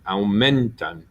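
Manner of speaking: Aumentan with a clear stress on MEN. Shown as a demonstration. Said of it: "sound the same anyway".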